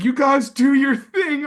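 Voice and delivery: high-pitched casual brother voice; brother brushing it off. Retold or imitated. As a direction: toss it off like it's nothing.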